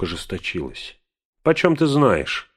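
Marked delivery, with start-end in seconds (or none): 1.5-2.5 a high, loud cry; shouting. A narrator's reading. Bilbo flaring up at Gandalf, angry shout. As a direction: fling it out in fury. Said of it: "выкрикнул он".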